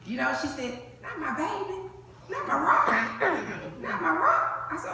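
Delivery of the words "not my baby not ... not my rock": mom crying. Retold or imitated. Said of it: "and just crying".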